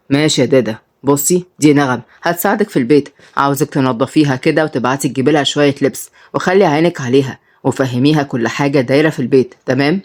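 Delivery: low, matter-of-fact male voice; lightly voiced boss; master of the house. Salim instructs the housekeeper.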